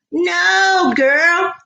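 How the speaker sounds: high cry of laughter; laughing shout. Real, not acted. Laughing, crying out.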